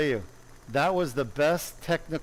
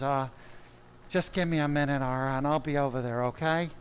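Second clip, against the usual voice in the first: Doctor Roten impression. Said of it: "we all mimic Doctor Roten's voice".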